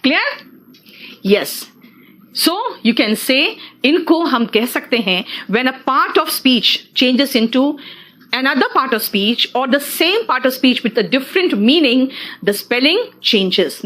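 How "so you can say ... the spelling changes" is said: very slow, word by word, like dictating notes; slow dictation. Acted. Teacher dictating the rule to her class, very slow and deliberate. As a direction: spell the rule out slowly for students to write.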